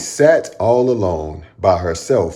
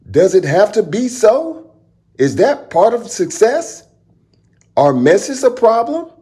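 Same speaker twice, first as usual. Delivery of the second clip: wondering aloud; 13 semitones higher than usual. Acted. Ada wonders to herself.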